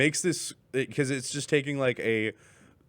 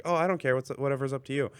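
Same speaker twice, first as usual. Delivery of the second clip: airy husband voice; 4 semitones higher, faster than usual. Retold or imitated. Husband answering about dinner.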